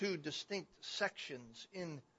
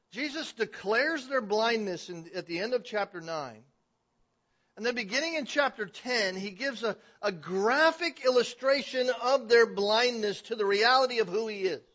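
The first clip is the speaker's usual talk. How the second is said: louder, raised preaching voice; forceful preaching; 7 semitones higher, 11 dB louder than usual. Real, not acted. Preacher declaring their blindness to the congregation, forceful preaching. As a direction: drive the point home to the congregation.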